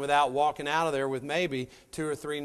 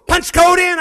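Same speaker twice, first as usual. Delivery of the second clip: put-on high, shouted Indian accent, curt; rude Indian man; 13 semitones higher, 17 dB louder than usual. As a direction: snap it like a gruff attendant over the intercom. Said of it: "this little Indian man goes".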